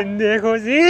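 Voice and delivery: imitated goal celebration. TikTok guy when the goal goes in, imitated yell. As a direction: erupt into a mock celebratory scream. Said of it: "Como el del TikTok, cuando va a meter un gol".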